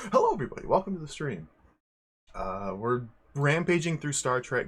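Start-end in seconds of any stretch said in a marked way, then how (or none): 0.1-1.5 bright excited greeting. Real, not acted. Streamer greets the chat.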